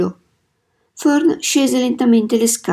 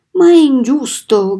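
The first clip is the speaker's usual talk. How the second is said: higher, slightly raised outcry; mild cry of protest; 4 semitones higher, 4 dB louder than usual. A narrator's reading. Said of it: "gridò Fern".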